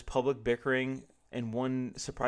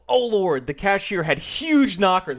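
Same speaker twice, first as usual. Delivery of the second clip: higher, louder, slow neurotic inner gasp; George's inner voice; 7 semitones higher, 11 dB louder, slower than usual. Acted. George ogling the cashier, slow scandalized thought. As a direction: let the thought slip out, scandalized.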